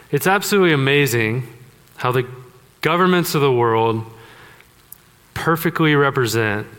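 mock-enthusiastic sarcasm; gushing with heavy irony; sarcastic. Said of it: "That's sarcastic if you're not on board".

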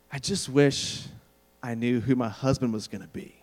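imitated dreamy little girl, trailing down; wistful daydream, with a pause after wish. Daughter muses at dinner about her future husband, mildly dreamy. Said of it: "looking kinda dreamy".

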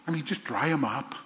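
husband asking his crying wife, mildly mocked; mock clueless husband. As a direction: tease the unhelpful husband, quietly. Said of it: "when your husband asks you that question".

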